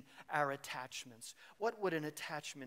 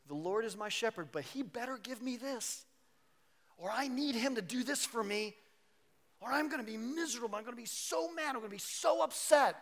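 mock petulant complaint to God, voice higher; whiny demanding believer; 4 semitones higher than usual. Preacher mimicking a believer who makes demands of God, higher and whiny. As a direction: sulk and demand like a spoiled child.

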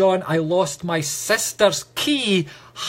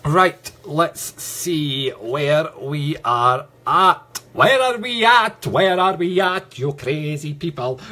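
calling out; 4 dB louder, slower than usual. Real, not acted. Calling out to live viewers.

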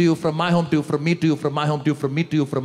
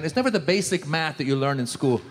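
ordinary delivery

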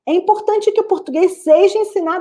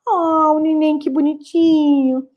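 put-on cooing over a baby. Shown as a demonstration. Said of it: "expressão facial que acompanha essa intensidade".

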